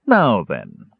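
low, stern mage voice; stern boom. A narrator's reading. Mage questions the mouse, stern and booming. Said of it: "boomed a stern voice".

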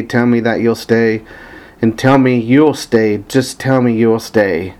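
even, measured recitation of song lyrics; reading lyrics aloud. Acted. Fan reading favorite lyrics to listeners, evenly recited. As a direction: recite the verse steadily, line by line.

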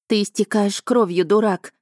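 выше и громче, с возмущением; сорвалась на крик. Acted. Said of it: "не выдержала я". (героиня срывается на дракона, выше и громче)

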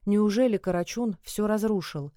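ordinary delivery, nothing marked

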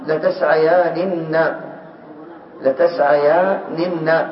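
each syllable of لتسعيانن stretched; very slow spelling-out. Shown as a demonstration. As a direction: build لتسعيانن slowly. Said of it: "ما الذي حصل الآن؟". (تهجئة بطيئة جدًا)

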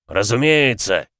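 loud curt growl. Acted. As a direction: bark it back. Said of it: "рыкнул магистр".

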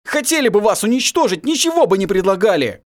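high, loud, hard warning; stern, harsh. Acted. Prince harshly warns the captives, high and loud. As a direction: lay it down firmly. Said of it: "жёстко сказал Владимир".

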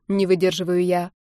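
ordinary talk

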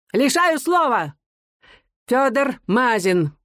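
высоко и медленно, раздражённо; тонко обрывает речь; старческий окрик. A narrator's reading. Судья снова обрывает. (судья тонко кричит: лишаю слова)

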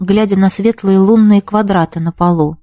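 usual speaking voice

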